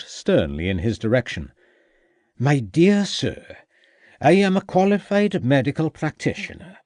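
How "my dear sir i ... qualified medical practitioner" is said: put-on Welsh accent. A narrator's reading. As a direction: draw yourself up in a Welsh accent. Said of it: "drawing up to his full height".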